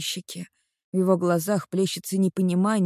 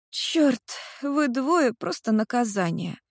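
much higher, slow teasing friend voice; 6 semitones higher, slower than usual. Acted. Friend passing the kissing couple, high slow teasing remark. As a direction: roll your eyes at the lovebirds.

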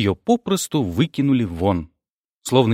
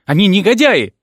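loud, high outraged cry; furious outcry; 8 semitones higher, 6 dB louder than usual. A narrator's reading. Rita shrieks to the manager about the scoundrels. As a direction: shriek the accusation. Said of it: "затопала ногами Рита".

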